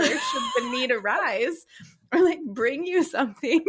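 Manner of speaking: high insistent explanation breaking into laughter; pleading wife losing it to giggles; exasperated explaining, laughing. Retold or imitated. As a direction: explain it to him, cracking up.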